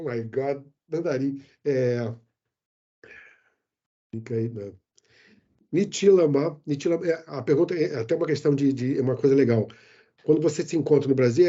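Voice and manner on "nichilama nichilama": Nichilama said carefully in Mandarin; Mandarin greeting. Shown as a demonstration. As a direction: sound out Nichilama as a Chinese greeting. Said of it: "falar um pouquinho em mandarim".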